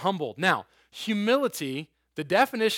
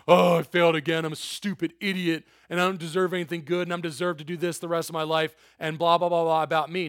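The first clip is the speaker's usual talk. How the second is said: mock self-pity. Mocking a self-bashing teen.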